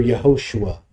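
"Yehoshua" said the Hebrew way, ye-ho-SHU-a; Hebrew pronunciation. Shown as a demonstration. Preacher showing a name's Hebrew form, "Yehoshua" pronounced the Hebrew way. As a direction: say "Yehoshua" as in Hebrew, four syllables. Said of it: "pronounced in the Hebrew".

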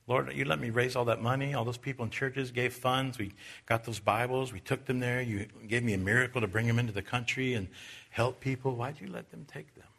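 questioning God, a little let down; discouraged prayer. Retold or imitated. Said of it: "I was a little discouraged".

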